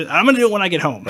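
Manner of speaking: said through a laugh; chuckling while promising, amused at himself. Real, not acted. Joking to co-host he'll hug his kids, laughing.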